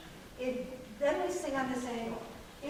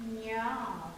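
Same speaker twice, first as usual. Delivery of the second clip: throaty meow. Shown as a demonstration. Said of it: "I can do that from my throat".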